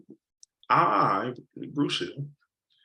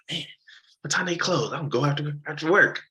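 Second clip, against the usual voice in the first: excited; 6 semitones higher than usual. Retold or imitated. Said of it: "I was excited".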